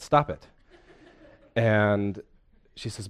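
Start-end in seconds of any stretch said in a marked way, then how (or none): 0.0-0.5 raised, laughing "Stop it"; laughing quote. Retold or imitated. Preacher retelling the therapist's line, laughing. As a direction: let the laugh break into the line.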